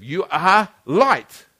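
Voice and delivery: slow, weighty declaration; slow, deliberate. Shown as a demonstration. Preacher telling the congregation who they are, slowly and deliberately. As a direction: let each word land slowly. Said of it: "repeats it, second take stronger".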